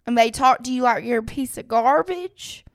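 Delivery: put-on light Southern country accent throughout. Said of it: "That was a really good country accent".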